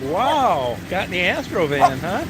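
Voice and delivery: pet talk. Real, not acted. Gushing to Daisy in the van, very high baby talk. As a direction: squeal praise at an excited dog. Owner gushes at excited dog.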